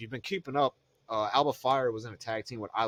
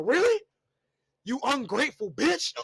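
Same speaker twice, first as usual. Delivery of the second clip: mock anger. Voicing Bianca turning on Naomi.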